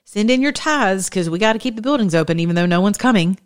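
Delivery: mock the pastor begging for tithes; mocking church voice. Preacher mocking churches that still beg tithes, high mock voice. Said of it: "Some of your churches are still like".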